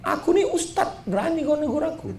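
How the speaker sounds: high, proud and huffy boasting; mock-arrogant self-important voice; indignant ego. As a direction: puff yourself up, offended at being corrected. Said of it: "bangkit lah ego saya".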